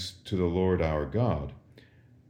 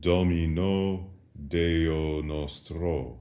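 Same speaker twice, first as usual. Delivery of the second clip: slow model answer; much slower than usual. Shown as a demonstration. Teacher models Latin answer slowly.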